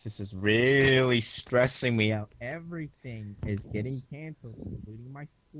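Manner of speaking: muffled, talking into a pillow. Real, not acted. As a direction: face pressed into a pillow. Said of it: "You're talking into a pillow".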